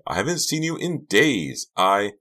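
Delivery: high-pitched frantic denial; screamed protest. A narrator's reading. Karina denies seeing Delia, high screamed protest. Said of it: "Karina screamed".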